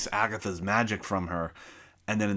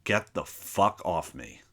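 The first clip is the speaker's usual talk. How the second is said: slow, cold threat; a teen threatening the teacher who grabbed him; menacing threat; 3 semitones lower, slower than usual. Retold or imitated. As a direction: say it like a serial killer. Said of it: "like I am a fucking serial killer".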